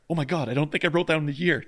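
half-joking fluster; mild retold panic. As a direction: replay a small moment of panic. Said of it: "Panic averted".

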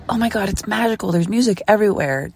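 fast, bright-eyed tourist gush; excited tourist gushing; giddy wonder. Retold or imitated. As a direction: gush about the magic. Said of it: "you go from".

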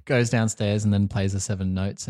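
put-on light German accent. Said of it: "I'm just doing a German accent now".

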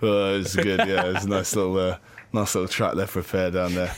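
low mock teenage cricketer; deep-voiced teenager. Playing the young bowler answering, lightly deepened voice. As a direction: drop lightly into his deep voice. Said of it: "he's got a ridiculously deep voice".

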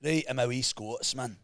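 a light Glasgow accent; Scottish accent. Shown as a demonstration. Friend shows his Scottish impression, light Scottish accent. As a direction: try a Glaswegian lilt. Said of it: "Let me mimic you".

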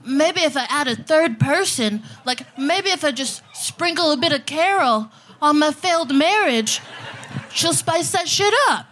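whiny worried husband, mocked; half-hearted panicky dude voice; mocking straight dude. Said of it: "dudes are walking around like".

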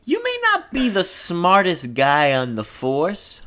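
confiding, drawn-out praise with a wink; sly, slowing at the end; knowing wink. Acted. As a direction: say it as an insider's compliment. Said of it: "with a kind of wink".

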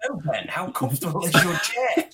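pushy interviewer. Shown as a demonstration. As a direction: press him like a badgering interviewer. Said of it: "Ask me that same question".

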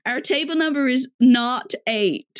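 "not eight" said carefully for "naught eight"; American "naught". Retold or imitated. American customer ordering at the bar, earnest "not eight". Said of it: "the way she's saying it".

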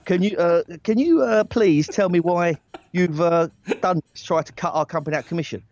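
hesitant, stumbling request. Retold or imitated. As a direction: tiptoe nervously into the accusation. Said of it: "a bit too soft".

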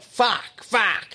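muttered swearing. Retold or imitated. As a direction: curse under your breath as the bloke. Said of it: "And then he just like".

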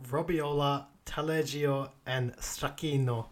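put-on light Italian accent on the food names. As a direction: roll out the names with a hint of Italian. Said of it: "'cause of the Italian accent".

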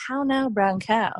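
slow, careful elocution exercise in posh vowels; elocution drill. Shown as a demonstration. Presenter recalls her elocution lessons, slow posh drill. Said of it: "wrap my tongue around the pencil and say".

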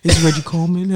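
hammed-up suave host voice; smooth announcer name drop; deep firm voice. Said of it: "I try to switch my voice up on the intro".

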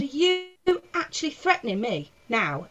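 re-enacted incredulous pushback; retold indignant challenge. Comic challenging the man again, indignant disbelief. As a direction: start high on a disbelieving "you". Acting out her confrontation.

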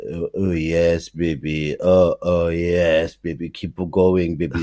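hammed-up French bedroom talk; French accent. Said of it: "you're talking like, uh, the French".

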